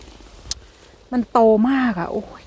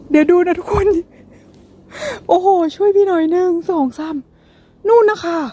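much higher, bright thrill at the find; excited squeal; 9 semitones higher than usual. Real, not acted. Showing viewers a mushroom cluster, excited high squeal. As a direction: squeal it out, can't believe the haul.

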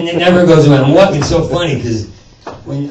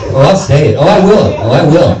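light mock girly taunt, a bit louder; girly arguing voice; 3 semitones higher, 3 dB louder than usual. Comic mocking his own LA way of arguing, girly sass. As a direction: sass it like a catty LA arguer. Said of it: "That's how I've learned to argue in, in L A".

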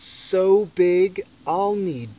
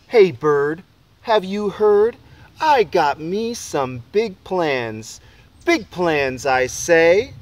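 excited call; 6 dB louder, slower than usual. Acted. Boy calls out to bird.

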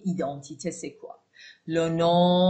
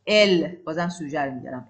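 normal talking voice

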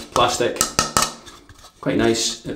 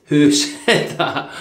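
mock voice; 5 semitones higher, much slower than usual. Mock voice asking who spoke.

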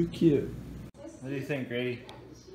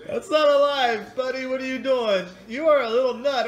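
much higher, louder cooing pet talk; 12 semitones higher, 6 dB louder than usual. Real, not acted. High baby talk to pet.

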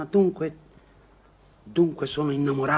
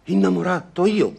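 incredulous outburst; 6 semitones higher, 7 dB louder than usual. Acted. Incredulous outburst at being called lovesick.

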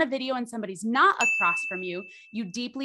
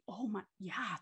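soft validation; 2 semitones lower, 11 dB quieter than usual. Retold or imitated. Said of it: "I'm like".

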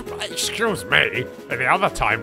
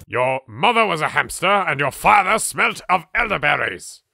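theatrical insult, lifting higher on the second half; mock taunt; 4 semitones higher, 4 dB louder than usual. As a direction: hurl a hammed-up insult. Shouts mock insult at the audience.

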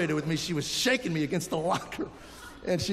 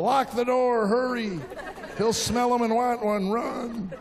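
mock urgency; 4 semitones higher, slower than usual. Fleeing son with brownies.

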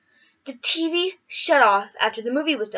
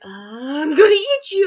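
slow, drawn-out monster voice; hammed-up hungry beast, slow; mock beast threat; 3 semitones higher, 4 dB louder, slower than usual. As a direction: growl it out like a hungry bear. Polar bear threatens her.

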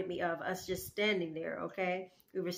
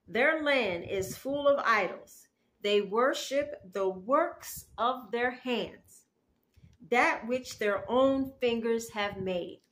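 slow, raised, emphatic declamation; scripture reading; 3 semitones higher, 5 dB louder, slower than usual. Acted. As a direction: read out the verse loudly, word by weighty word. Reads Isaiah aloud.

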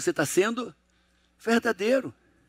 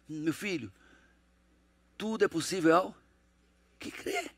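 put-on tender hush to child; 4 semitones lower, 7 dB quieter than usual. Father encouraging child to dream.

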